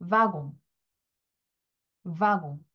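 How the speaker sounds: 와공 said wa-gon with a nasal on; 와공 as a French model word; French wagon. Shown as a demonstration. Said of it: "프랑스어로는 이렇게 있습니다".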